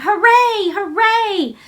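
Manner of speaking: high, loud hooray, fading on the second; shouted cheer. Acted. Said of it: "Colin would probably have shouted".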